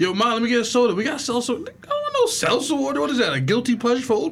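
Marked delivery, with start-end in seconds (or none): 0.0-0.9 put-on high pleading kid asking mom; playing a kid begging for soda; whiny kid voice.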